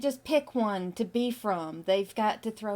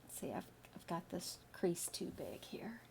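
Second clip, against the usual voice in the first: whispered to self; 14 dB quieter than usual. Real, not acted. Muttering to herself while drawing.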